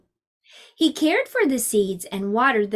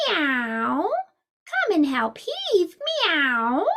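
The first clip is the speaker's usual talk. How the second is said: cat voice; 5 semitones higher, much slower than usual. Acted. Cat calls the mouse.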